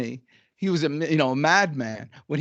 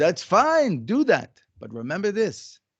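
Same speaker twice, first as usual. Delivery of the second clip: put-on light, slow, deliberate French accent; 2 semitones higher than usual. Quoting a man's reply to the speaker's plan to get a job, little French Jewish accent. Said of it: "with his little French Jewish accent".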